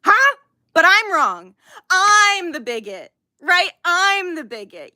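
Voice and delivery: sarcastic challenge. Real, not acted. Sarcastic challenge to absent critics.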